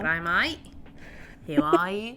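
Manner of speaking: put-on a light Australian accent, "G'day, mate" drawn out; lightly hammed Australian hello; mock Australian accent. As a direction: play a cheery Aussie greeting. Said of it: "it sounds almost Australian".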